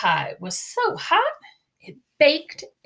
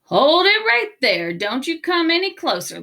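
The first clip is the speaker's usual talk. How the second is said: louder, higher warning yell; 5 semitones higher, 3 dB louder than usual. Acted. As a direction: stop the wolf with a sharp yell. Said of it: "Red Hot yelled".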